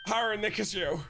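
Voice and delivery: Maya's cursive voice, pitched high. Acted. Streamer voicing a game girl he hates doing, cursive voice. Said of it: "I hate saying her voice".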